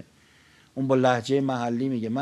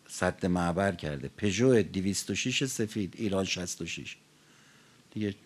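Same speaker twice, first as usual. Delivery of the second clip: car notice announcement; 5 semitones lower, 4 dB quieter than usual. Real, not acted. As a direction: read the car and plate out, subdued and matter-of-fact.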